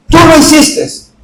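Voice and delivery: acusación imitada, aguda y lenta; acusación infantil. Retold or imitated. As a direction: imita despacio a una niña acusando. Hermanita repite su acusación. (acusación de niña, lenta)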